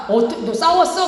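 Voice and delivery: mother's sudden high alarmed question; startled question. Retold or imitated. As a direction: jump up in surprise at the news.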